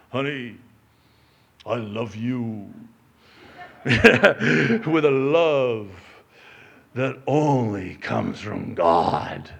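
a lightly voiced pompous husband, slow and low; mildly pompous, slow and self-satisfied; husbandly tone. Husband to his wife, lightly played pious and pompous. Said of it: "in that tone, that husbandly tone".

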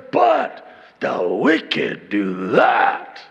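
loud, drawn-out swooping scorn; exaggerated condemnation. Righteous reader pointing at the wicked, loud mock condemnation. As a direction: stretch each word in theatrical disgust. Acts self-righteous reading of contrast.

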